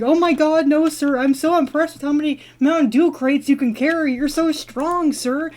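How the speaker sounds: butter up the guard, half in jest; flattering. Retold or imitated. Dreamer sweet-talking the burly guard, flattering. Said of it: "Don't try to flatter me".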